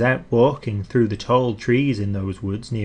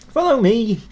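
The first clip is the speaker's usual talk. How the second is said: cheery call; 10 semitones higher than usual. A narrator's reading. Mister Happy leads on.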